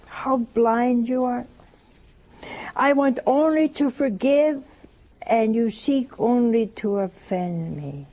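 slow, measured lament; sorrowful sacred reading. Acted. Jesus lamenting to poor sinners, solemn and slow. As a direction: draw the phrases out with sorrow.

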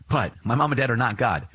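ordinary talk, nothing marked

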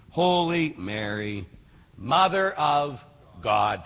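very slow, reverent prayer line; slow prayer recital. Shown as a demonstration. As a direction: draw the words out prayerfully. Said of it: "again, we're saying that Mary's holy".

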